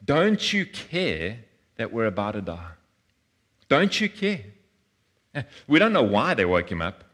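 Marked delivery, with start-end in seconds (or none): 0.0-4.4 panicked plea, rising into a cry; desperate disciples. Retold or imitated. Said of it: "what do they ask him".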